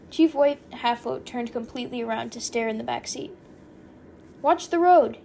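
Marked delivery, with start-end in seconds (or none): 4.4-5.2 loud, high alarmed call; shouted warning. A narrator's reading. Passenger to driver facing the back seat, shouted warning. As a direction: yell it to the driver.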